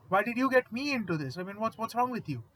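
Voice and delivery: high, loud panicky whine, a coward imitated; cowardly whine. Coward Wisconsin blaming Hall, panicky high whine. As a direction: whine it like a big coward caught out. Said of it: "a big-ass coward".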